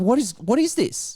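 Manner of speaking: play-acted panicked, scared voice with repeated words. Retelling finding strange money in the account: retelling own freak-out. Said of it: "I was freaking out".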